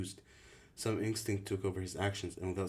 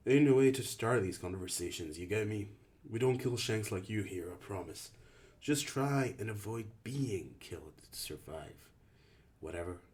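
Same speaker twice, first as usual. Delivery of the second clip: lightly voiced tough teen leader, a bit louder; impatient older boy laying down the law; hint of a rough camp leader; gruff leader Albie; 2 semitones higher, 6 dB louder than usual.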